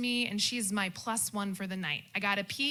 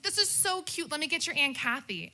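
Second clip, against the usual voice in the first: delighted mom; 6 semitones higher, 4 dB louder than usual. Retold or imitated. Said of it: "my mom's like".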